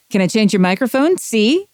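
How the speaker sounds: tough-guy mobster, fast and high; gangster movie voice. Shown as a demonstration. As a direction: threaten like an old movie gangster. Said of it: "turn anything into a gangster film".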